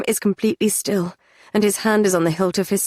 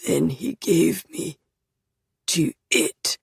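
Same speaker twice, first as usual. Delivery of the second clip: slow, cracking into a whisper; voice breaking; slower than usual. Acted. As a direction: let the voice give way. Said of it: "His voice breaks".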